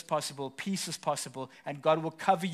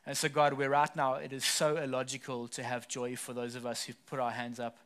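prayer. Acted. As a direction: pray gently over the room. Closing prayer over congregation.

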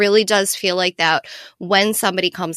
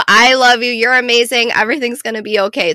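mock gushing cheer, a bit louder; all-caps hype; 3 semitones higher, 4 dB louder than usual. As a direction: play the over-the-top hype friend. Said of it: "met with an all caps".

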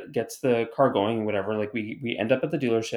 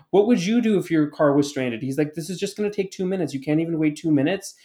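higher-pitched retold protest; indignant quoted challenge, pitched up; talking back; 4 semitones higher than usual. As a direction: imitate the driver arguing back. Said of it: "talks back to them".

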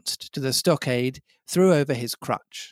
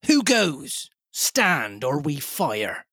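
hailing challenge; slower than usual. A narrator's reading. Captain hailing the buccaneer, challenging. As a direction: call out a warning across open ground. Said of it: "Then he hailed the buccaneer".

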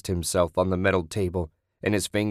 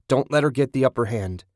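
higher urgent shout; 4 semitones higher than usual. A narrator's reading. Ted warning Julie mid-fight, shouting. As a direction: call the warning across the room. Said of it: "Ted shouted".

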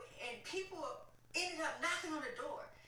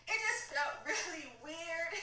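laughing; 4 semitones higher than usual. Real, not acted. Recalling the hotel bathroom.

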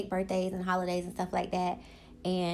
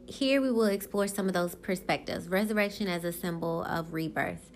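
even, measured read from a text; reading aloud. Acted. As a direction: read the article aloud to viewers, steady.

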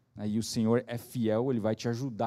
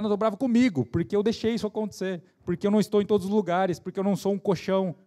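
high, worked-up self-reproach; acted self-anger; 7 semitones higher, faster than usual. Father blaming himself for his child's fall, angry. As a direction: play a parent cross with himself, pitched up. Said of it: "ele fica bravo com ele".

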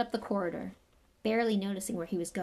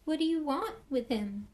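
quavering voice; 7 semitones higher than usual. Acted. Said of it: "in a quavering voice".

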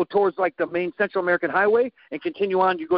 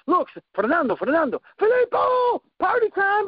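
calling out; 12 semitones higher than usual. Retold or imitated. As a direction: hail your buddy like it's party time. Calling out to friend at bar.

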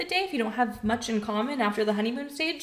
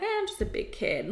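put-on childish voice; 11 semitones higher, 4 dB quieter than usual. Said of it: "sometimes I'm like".

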